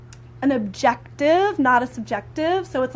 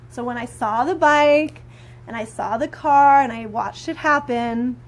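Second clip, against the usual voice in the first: calm nonviolent phrasing. Shown as a demonstration. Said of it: "But in nonviolent communication, I would say".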